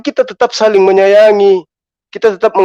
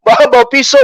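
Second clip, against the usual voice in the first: laughing; faster than usual. Real, not acted. Laughs mid-rant at rival.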